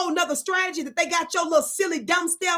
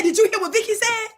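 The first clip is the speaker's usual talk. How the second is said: higher, pressing the question; raised, insistent challenge; emphatic quote; 5 semitones higher than usual. Shown as a demonstration. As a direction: urge them to go ask it. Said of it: "No, did you go over there and say".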